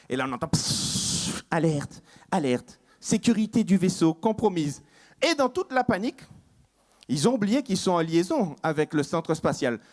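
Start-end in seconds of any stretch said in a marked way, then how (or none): 0.5-4.8 alarme de bord. Acted. Alarme du vaisseau.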